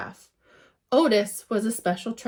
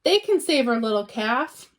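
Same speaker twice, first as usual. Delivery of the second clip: hopeful call; 3 dB louder than usual. Acted. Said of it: "the farmer shouted".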